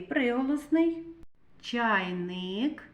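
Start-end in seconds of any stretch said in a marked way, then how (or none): 1.6-2.8 "Чайник" with a long rising И; vowel И emphasized. Shown as a demonstration. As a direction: stretch the И in "Чайник". («Чайник» із протяжним И)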